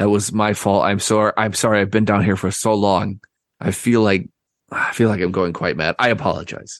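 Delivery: embarrassed, flustered, apologetic character voice. Voicing an embarrassed character apologizing to the party: embarrassed apologetic character. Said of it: "gets embarrassed and she's like".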